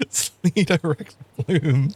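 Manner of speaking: slow, drawn-out mock German accent. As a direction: say it like a hammy German. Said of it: "it doesn't work without the German accent".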